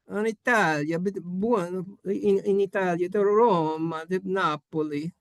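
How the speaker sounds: put-on playful Italian accent on place names. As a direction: roll out the names with an Italian lilt.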